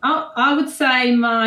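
Australian accent. Shown as a demonstration. Guest starts answering host, tentative Australian accent. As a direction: try out a drawn-out Australian accent. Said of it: "So this one's Australian".

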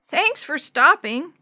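put-on slow, polite old man thanks. A narrator's reading. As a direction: say it slowly and courteously. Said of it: "Mister Chambers said politely".

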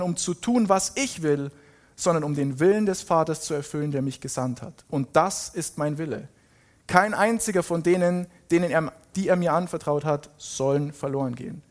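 measured proclamation with punched key words; scripture reading. Acted. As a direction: read out as a solemn declaration. Reads Jesus' speech emphatically. (betonte, verkündende Bibellesung)

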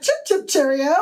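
mock British. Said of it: "you were like".

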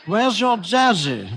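high, slow royal voice; kindly King. Acted. King asking Molly about her father, high and slow. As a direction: ask gently like a storybook king. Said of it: "the King asked Molly".

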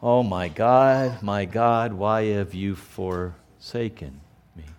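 slow, soft, broken lament; forsaken lament. Acted. Believer feeling God is gone, slow soft lament. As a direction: let it fall away, forsaken and slow. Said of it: "we say something like this".

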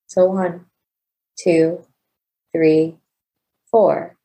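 slow, evenly spaced instructions and counts; measured meditation guide, pausing between steps; guided breathing. Real, not acted. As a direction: pace each count for listeners to breathe along. Leads a counted breathing exercise.

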